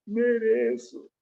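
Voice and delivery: criança chorando, voz aguda e lenta; choro imitado. Retold or imitated. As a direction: arrasta a palavra como quem chora. (menino chorando admite "Mereço")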